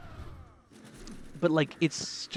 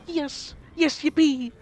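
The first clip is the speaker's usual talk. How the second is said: cheering; 13 semitones higher, 6 dB louder, slower than usual. Real, not acted. Cheering at the game.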